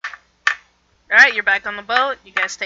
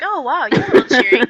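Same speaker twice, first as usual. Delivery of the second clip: a lightly put-on Frederick voice, a bit louder and higher; Frederick's dry remark; 6 semitones higher, 5 dB louder than usual. Game master voicing Frederick teasing the cheerful player character. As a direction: tease her with a wry NPC voice. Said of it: "He's like".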